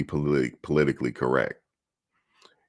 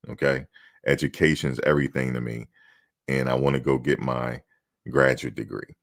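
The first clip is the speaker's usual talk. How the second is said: humble. Shown as a demonstration. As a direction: play the grateful, humble draft prospect. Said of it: "You gotta be humble".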